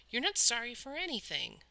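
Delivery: put-on angry boy shouting down an apology; shouted. A narrator's reading. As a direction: throw the words back at him. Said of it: "Peter shouted".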